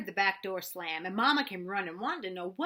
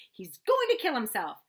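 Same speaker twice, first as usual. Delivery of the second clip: shouted; 4 semitones higher, 10 dB louder than usual. A narrator's reading. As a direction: drag it out as a shouted order. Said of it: "she shouted".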